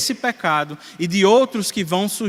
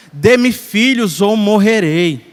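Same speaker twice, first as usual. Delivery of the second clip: louder, slower, emphatic plea; lightly dramatized ultimatum, louder and drawn out; mildly acted demand; 3 semitones higher, 6 dB louder, slower than usual. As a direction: read the demand out forcefully. Reading Rachel's demand to Jacob.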